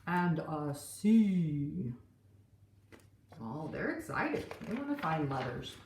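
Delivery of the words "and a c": pirate crew. Acted. Pirate crew voiced in story.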